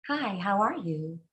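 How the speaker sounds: pinched high-larynx voice. Shown as a demonstration. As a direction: lift the larynx, tight and thin. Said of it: "you feel a high larynx".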